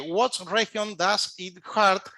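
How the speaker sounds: very slow, each English word spelled out by sound; slow phonetic English. Shown as a demonstration. Rescuer demonstrating a question to a foreign patient, very slow. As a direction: say the English slowly so a foreigner catches it. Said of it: "vamos a utilizar justamente la fonética".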